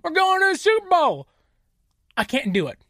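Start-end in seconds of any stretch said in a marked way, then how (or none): 0.0-1.3 higher mock-confident hype. Mocking a Niners fan promising a Super Bowl, higher and hammed-up. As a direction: fake the big boast. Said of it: "put that out there and say".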